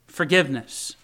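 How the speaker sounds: loud, impassioned confession to God; a preacher voicing David's urgent prayer; pleading. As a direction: plead with God, building in force and easing at the end. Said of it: "it's pleading for the mercy of God".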